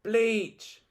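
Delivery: sharp high yelp; high cry of revulsion; yelped disgust. A narrator's reading. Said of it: "yelped horrid Henry".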